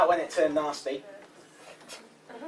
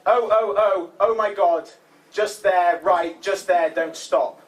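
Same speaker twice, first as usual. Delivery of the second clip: mock ecstasy; 3 semitones higher, 5 dB louder, slower than usual. Witness quoting the intruder, mock ecstatic cries. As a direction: urge them on in pretend rapture. Acted ecstatic quote in comic monologue.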